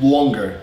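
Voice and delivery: longer with a rounded aw; East Coast vowel. Shown as a demonstration. Teacher repeating own accent, long aw in longer. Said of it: "That's my normal accent".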